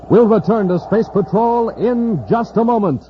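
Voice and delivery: ordinary talk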